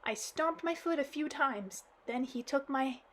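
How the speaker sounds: acted child crying to granddad; blubbering girl. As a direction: blurt it out blubbering. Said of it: "all the while laminating".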